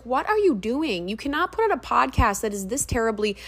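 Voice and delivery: exasperated. Retold or imitated. Acting own exasperation at the podcaster.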